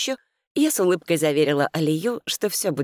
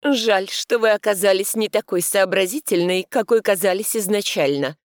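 fake sadness; 4 semitones higher, 4 dB louder than usual. A narrator's reading. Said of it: "сделанной печалью произнесла она".

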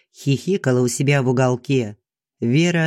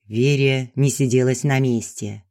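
usual speaking voice

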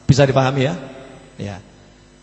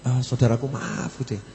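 softer, gentle calming of the students; gentle and courteous; 3 semitones lower, 5 dB quieter than usual. Retold or imitated. Habib calms angry students, soft and courteous. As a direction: soothe them softly, without a trace of anger. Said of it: "dengan santun".

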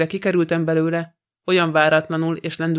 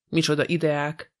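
ordinary delivery

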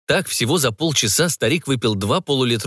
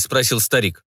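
ordinary delivery, nothing marked

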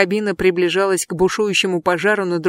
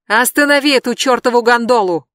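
loud yell, voice raised; 5 semitones higher, 6 dB louder than usual. Acted. Jeb yells up at Brandi, loud yell. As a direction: shout her name across the platform. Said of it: "завопил он".

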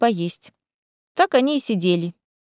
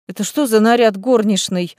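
indignant. Acted. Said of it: "возмутилась Лиза".

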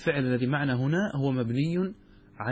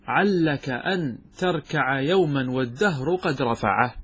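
verse recitation; slower than usual. Shown as a demonstration.

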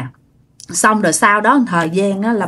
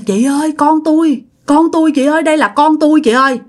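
wailing plea; 6 semitones higher than usual. Retold or imitated. Mother wailing to the neighbour over the baby, high and tearful. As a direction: wail as if she has found her lost child. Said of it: "Bà Tân mới gào khóc lên".

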